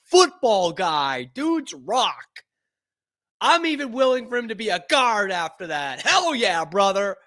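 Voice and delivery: high, drawn-out victory yells; hyped fan celebration. Real, not acted. Fan cheering the new draft pick, hyped yelling. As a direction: whoop it up like a won-over fan.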